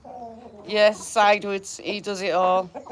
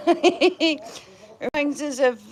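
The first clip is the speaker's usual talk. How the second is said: slow, chuckling through the words; laughing; 4 semitones higher, much slower than usual. Real, not acted. To viewers about the truffle shuffle, laughing. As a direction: laugh as you start to explain. Laughing while recalling comedian.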